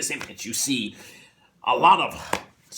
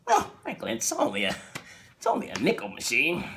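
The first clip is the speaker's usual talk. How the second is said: sheepish wife; 4 dB quieter than usual. Retold or imitated. Wife defends herself.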